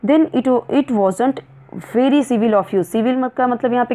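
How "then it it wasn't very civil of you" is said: angry. Shown as a demonstration. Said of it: "Alice ने गुस्से में बोला".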